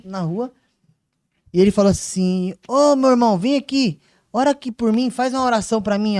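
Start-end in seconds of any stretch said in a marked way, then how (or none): 2.7-6.2 raised voice, higher pitch; loud street call, retold; calling someone over. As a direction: hail a passer-by and plead for a prayer. Stranger calls him over in street.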